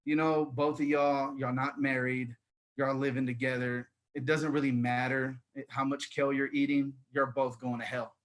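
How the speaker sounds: low, soft pastor's counsel; pastor's verdict. Retold or imitated. Pastor counselling an unmarried couple, quietly judgemental. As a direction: pass judgement evenly, as a pastor. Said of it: "our pastor, it was crazy".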